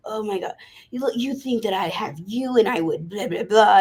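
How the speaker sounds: mocking imitation of a cocky boyfriend; cocky mimicry. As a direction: act out his dismissive scoffing, trailing into blahs. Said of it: "so cocky about it".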